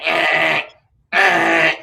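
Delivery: squealing eh like a siren; pig squeal. Retold or imitated. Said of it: "They may say".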